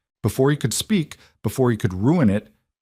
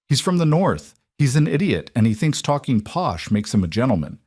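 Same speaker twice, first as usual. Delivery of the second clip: fired back; 5 semitones higher than usual. Acted. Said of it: "Nora fired back".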